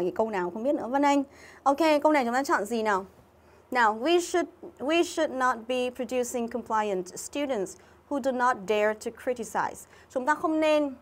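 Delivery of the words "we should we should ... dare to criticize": slow, deliberate reading of the sentence; reading aloud. Shown as a demonstration. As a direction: read the English sentence out slowly for the class. (đọc chậm câu tiếng Anh)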